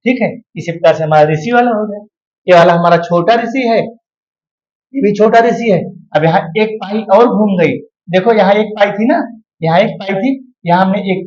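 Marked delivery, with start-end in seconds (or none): 3.8-5.8 very slow, drawn-out explanation; deliberate slowed-down teacher line; slow emphasis. Shown as a demonstration. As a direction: drag each word out for the class. Teacher stretching a phrase.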